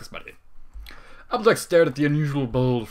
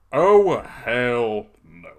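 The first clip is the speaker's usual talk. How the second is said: drawn-out flat refusal; slow disbelief; 7 dB louder, much slower than usual. Real, not acted. Narrator refusing what she just read, slow and flat. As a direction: drag it out in disbelief.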